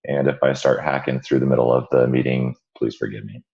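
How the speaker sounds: hoarse, croaky voice from a cold; frog voice. Real, not acted. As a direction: talk through a croaky throat. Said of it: "you'll have to forgive my frog voice".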